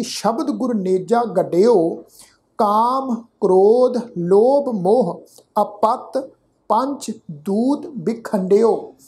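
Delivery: measured, deliberate chanting of the verse; slow scripture recitation. Acted. Teacher recites the savaiya to the sangat, slow and measured. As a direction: recite each word slowly and clearly.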